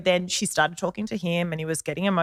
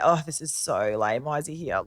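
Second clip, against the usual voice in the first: dismissive sulk; 3 semitones lower than usual. Retold or imitated. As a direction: drag it out like a bored teen forced to come. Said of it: "I'm already like".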